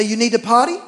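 sing-song potty question to the dog; dog baby talk. Retold or imitated. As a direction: coax the dog like a toddler. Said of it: "I didn't even talk to my kids that way".

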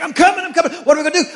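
high, loud excited dog; eager dog voice. Retold or imitated. Jack Russell terrier answering its owner, high and excited. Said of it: "He's like".

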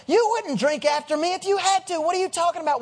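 incredulous scoff. Acted. Woman at the well answers Jesus' request, scoffing. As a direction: push back as if the request were absurd.

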